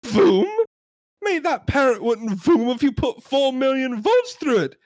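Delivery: exasperated sketch customer; John Cleese yelling. Acted. Customer scoffing at the shopkeeper's excuse, exasperated yell. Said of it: "I made myself John Cleese in that sketch, and he yells a lot".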